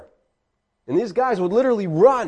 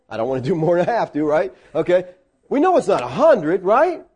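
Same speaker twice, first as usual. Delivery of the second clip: mock haggler; 3 semitones higher than usual. Mock questioner haggling over obedience.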